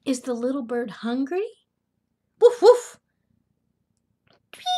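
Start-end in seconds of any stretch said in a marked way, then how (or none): 2.4-3.0 high, loud woofing; two sharp high barks, acted out; dog barks. Grandmother reading Biscuit book to children, dog barks. 4.5-4.6 short little chirped tweet; bird tweet. Acted. Reader voices little bird for children, quick chirp.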